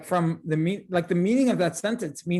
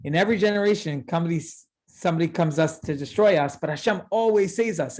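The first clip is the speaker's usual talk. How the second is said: upbeat, triumphant. Shown as a demonstration. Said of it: "And the other way is".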